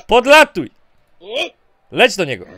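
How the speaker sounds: ordinary talk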